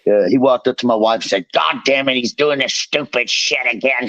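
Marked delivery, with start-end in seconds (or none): 1.5-4.1 coach's yell. Retold or imitated. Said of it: "He talks just like that".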